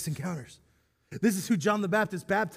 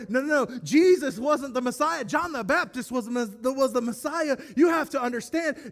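mock protest; 4 semitones higher than usual. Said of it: "they tried to declare".

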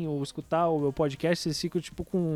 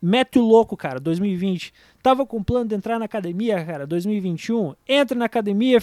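loud pep talk; 3 semitones higher, 6 dB louder than usual. Real, not acted. Fired-up pep talk to listeners.

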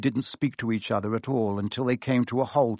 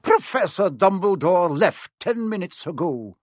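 coldly; 6 semitones higher, 3 dB louder than usual. A narrator's reading. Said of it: "she said coldly".

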